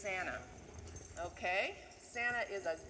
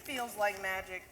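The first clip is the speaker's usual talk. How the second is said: lively storybook reading of a Christmas poem; a teacher reading The Night Before Christmas to the class; reading to children; 3 semitones higher than usual. Acted. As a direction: read it like a bedtime story to kids.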